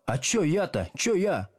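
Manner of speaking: a touch of shy bewilderment; bashful mumbling. A narrator's reading. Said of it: "застенчиво улыбался и бормотал".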